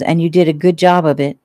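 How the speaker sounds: a hint of a pinched nose; holding his nose. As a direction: speak while pinching your nose. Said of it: "holding his nose".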